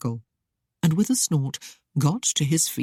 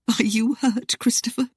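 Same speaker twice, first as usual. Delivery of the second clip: higher, sugary mock concern; sweetly; 7 semitones higher than usual. A narrator's reading. Lady teasing fallen suitor with sweet higher voice. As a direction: coo the question at him. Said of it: "she asked sweetly".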